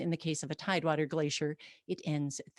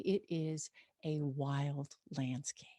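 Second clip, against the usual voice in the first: hushed awe; 3 semitones lower, 7 dB quieter, slower than usual. Real, not acted. Awed aside about the landscape.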